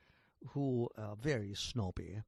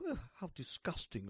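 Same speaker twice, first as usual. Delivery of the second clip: disgusted wife; 6 dB quieter than usual. Acted. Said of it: "the boss's wife is quite".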